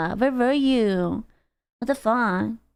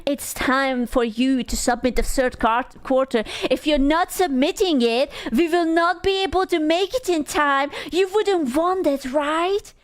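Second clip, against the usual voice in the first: higher, sugary, pushy reminder voice; mock accountant; 3 semitones higher than usual. Mocking the accountant who pushes for the quarterly filing. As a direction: play the nagging accountant sweetly. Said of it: "They are like".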